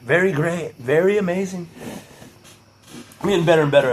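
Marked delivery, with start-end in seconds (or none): 0.0-1.7 a hint of Trump boasting; Trump impression. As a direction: lightly mimic Trump bragging. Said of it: "my Trump impression".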